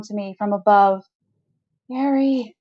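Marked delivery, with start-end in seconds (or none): 1.9-2.5 calling out. A narrator's reading. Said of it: "calls Lennon".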